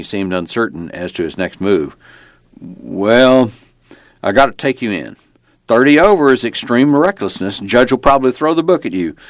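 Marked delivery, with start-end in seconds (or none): 2.6-9.2 officious lawman, pitch climbing as he goes; small-town cop. Acted. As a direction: announce the arrest as a folksy Virginia cop. Narrator plays the small-town cop.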